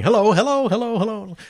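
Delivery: calling out hello. Retold or imitated. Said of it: "the airport going".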